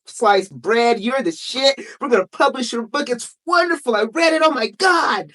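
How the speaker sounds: a hint of a smooth-talking publisher flattering her; gushing publisher. Author imitating the publisher hyping her up, lightly voiced. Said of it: "this guy gassed me up".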